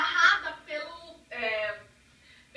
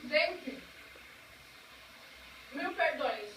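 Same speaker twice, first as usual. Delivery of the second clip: mouth full; 7 dB quieter, slower than usual. Real, not acted. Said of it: "falar de boca cheia".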